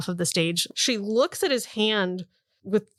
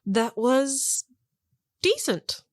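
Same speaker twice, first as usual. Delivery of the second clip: grudging praise; 5 semitones higher, much slower than usual. Acted. GM voicing unimpressed harpist.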